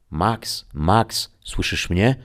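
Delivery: a faint call tuning in from far away; distant voice over static. A narrator's reading. Greta reaching Max through static, faint distant call.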